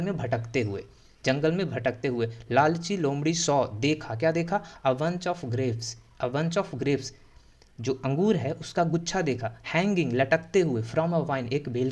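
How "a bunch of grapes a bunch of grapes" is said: very slow, each word drawn out; slow model reading. Shown as a demonstration. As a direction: lay the phrase out slowly for copying. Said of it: "teacher models the phrase". (बहुत धीमा उच्चारण)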